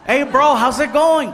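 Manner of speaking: lifted, drawn-out friendly greeting; high sing-song Mexican. Retold or imitated. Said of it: "we sound high".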